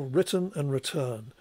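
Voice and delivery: "written" stressed on the first syllable, "return" on the second; contrasting lexical stress. Shown as a demonstration. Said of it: "an emphasis on the first syllable".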